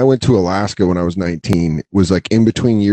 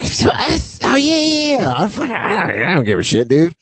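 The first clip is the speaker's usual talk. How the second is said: fake nonchalance; 9 semitones higher than usual. Retelling his buddy's news, forced casual and much higher. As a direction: act like it doesn't sting, voice way up. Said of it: "And I was like".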